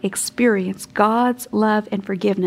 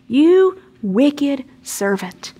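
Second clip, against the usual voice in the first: stern rebuke; 3 semitones higher, much slower than usual. Acted. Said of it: "That's pretty strong language".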